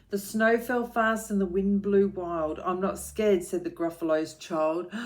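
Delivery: put-on rhythmic read-aloud for children; lilting picture-book reading; story narration.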